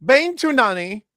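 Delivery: put-on French accent, drawn out. Co-host showing off the band's name in a French voice. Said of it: "in your nice French voice".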